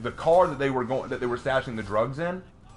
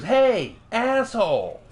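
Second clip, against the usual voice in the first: high, loud mock yell of a tough gang leader; mock shout; 9 semitones higher, 5 dB louder, much slower than usual. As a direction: bark it out like a cheesy action heroine. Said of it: "She just goes".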